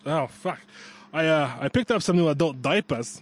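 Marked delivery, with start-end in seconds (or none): 1.1-3.2 unsure mock Australian accent; attempted Australian accent. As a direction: wobbly try at Australian. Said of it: "That's not it".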